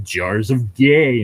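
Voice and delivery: slow, drawn-out mock jeer; slow taunting jeer. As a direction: sneer it slowly like a troll. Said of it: "saying shit like".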